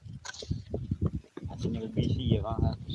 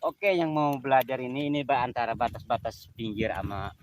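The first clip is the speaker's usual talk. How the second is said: shouting over wind; 7 dB louder than usual. Real, not acted. Anginnya kenceng banget.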